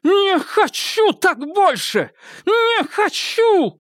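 very high, slow cry; screaming. Acted. Irma screams at her sister, very high and slow. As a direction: scream out of a found voice. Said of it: "И вдруг закричала".

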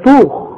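طوخ with a full emphatic ta; tajweed emphatic ta; heavy ta. Shown as a demonstration. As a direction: darken the ta in طوخ. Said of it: "زي ما تقول".

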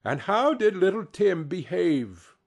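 a hint of motherly interest; mother asking. A narrator's reading. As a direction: ask tenderly after your little son. Mother asks father about child.

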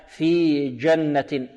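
جنة with a proper jeem, slowly drawn out; careful, slow جنة with a clean jeem; correct jeem. Shown as a demonstration. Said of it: "لا".

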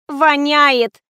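high, loud whiny complaint; capricious whine. A narrator's reading. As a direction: whine it like a spoiled diva. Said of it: "закапризничала". (капризно, высоким голосом)

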